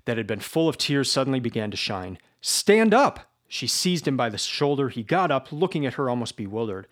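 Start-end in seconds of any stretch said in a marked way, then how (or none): 2.4-3.3 high, loud call to rise; sharp, passionate command; urgent command. Acted. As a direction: order him up with fire. Sonia urges Raskolnikov to confess.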